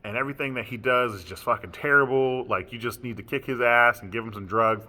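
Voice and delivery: mock angry rant, loud, words punched; mother ripping into son. Mother tearing into her son at family therapy, angry rant. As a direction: rip into him, drawing out the insults. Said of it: "just ripped into my ass".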